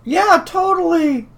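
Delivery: high squeaky were-rat bluff. Acted. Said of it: "who does the best Were Rat impression".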